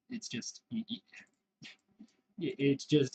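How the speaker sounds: talking through a yawn; words broken by a yawn. Real, not acted. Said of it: "I will yawn a lot".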